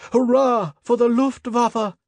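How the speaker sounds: high, slow triumphant cheer; cheering shout. A narrator's reading. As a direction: cheer at the top of the voice. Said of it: "we all shouted".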